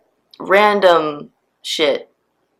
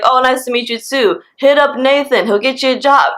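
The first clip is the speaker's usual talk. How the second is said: higher, mock-friendly chirp; mock audacity; 5 semitones higher than usual. Old guy sending her to his nephew, mock breezy. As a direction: imitate his breezy send-off, pitched up. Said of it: "he has the audacity to be like".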